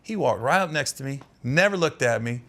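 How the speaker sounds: normal talking voice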